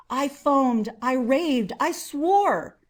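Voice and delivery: frantic, rising outburst; raving. Acted. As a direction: spit out each clause as madness breaks. Narrator losing control.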